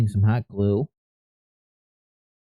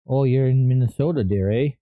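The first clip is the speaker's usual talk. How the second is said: a light Minnesota accent, barely put on; playful half-hearted Minnesota twang; mock Minnesota accent. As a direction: tease the viewer with a hint of Minnesota. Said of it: "that's my best Uber, Uber accent".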